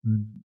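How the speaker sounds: brief, soft growled "mm". Retold or imitated. Satan reacts to the scripture, soft imitated growl. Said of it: "and he growled".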